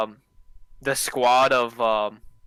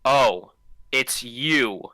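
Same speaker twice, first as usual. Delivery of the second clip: lightly voiced robot; a hint of a flat robot voice; much slower than usual. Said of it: "with his robot voice and he goes".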